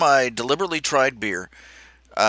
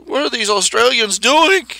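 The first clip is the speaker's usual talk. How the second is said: incredulous; 10 semitones higher, 4 dB louder than usual. Retold or imitated. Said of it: "And I'm like".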